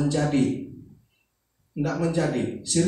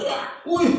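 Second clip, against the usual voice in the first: short, higher-pitched mock cry; retold sudden yell; 11 semitones higher than usual. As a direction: imitate a sudden startled yell. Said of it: "Tiba-tiba dia teriak".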